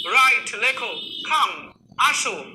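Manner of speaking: কাম, আসো said slowly and evenly; slow command. Shown as a demonstration. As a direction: stretch out কাম, আসো gently. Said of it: "এটার অর্থ এইভাবে বলবেন". (ধীরে বলা কাম, আসো)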